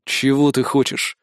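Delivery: ordinary delivery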